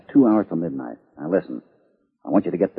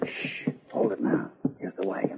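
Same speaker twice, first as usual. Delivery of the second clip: whispering; 8 semitones higher, 6 dB quieter than usual. Acted. Sneaking in a dark stable.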